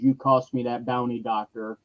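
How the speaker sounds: a hint of a robotic Mandalorian menace; menacing electronic voice. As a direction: growl it through a mask like a bounty hunter. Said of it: "in that great electronic voice goes".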